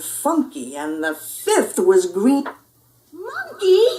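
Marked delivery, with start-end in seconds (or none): 3.1-3.9 high, loud yell. Acted. Pup spotting his sock monkey, loud yell. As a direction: yell for your toy. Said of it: "yelled Scipito".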